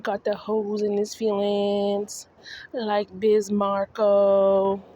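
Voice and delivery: mock Justin. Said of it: "Just like Justin".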